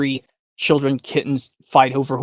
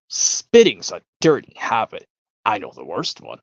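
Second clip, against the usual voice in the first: slow, lower prim remark; prim disapproving guest; 5 semitones lower than usual. Retold or imitated. A guest scolding about spitting, slow and low. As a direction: deliver it stiffly like a fussy parent. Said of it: "from Willy Wonka".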